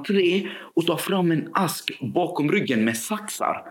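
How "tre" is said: high retold yell, held back in volume; mock shout. Boy reaching his final count, mock shout. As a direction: imitate a child's shouted count, pitched up. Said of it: "då skriker han".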